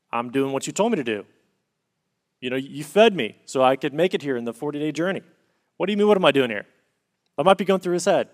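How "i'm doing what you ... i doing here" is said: fast, rising into an indignant protest; exasperated Elijah. Retold or imitated. Elijah answering God's question, exasperated and fast. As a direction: protest like a worn-out prophet who did everything asked. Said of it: "Elijah might be thinking".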